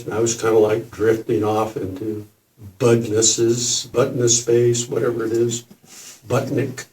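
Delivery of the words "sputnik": half-whispered, groping for a word; breathy searching murmur. Real, not acted.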